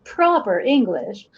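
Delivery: careful code-switched proper American English accent. Shown as a demonstration. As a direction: demonstrate proper English, every word carefully enunciated. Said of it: "let me do this too".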